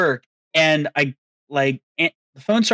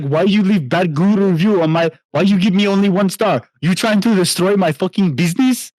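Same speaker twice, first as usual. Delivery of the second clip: mock Indian accent. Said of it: "that's what he sounded like".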